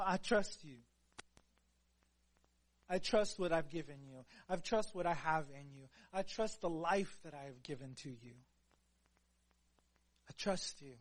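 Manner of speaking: a hint of God calmly reassuring; gentle voice of God. Voicing God's gentle reply.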